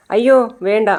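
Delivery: alarmed refusal. Retold or imitated. Mother refuses the baby girl.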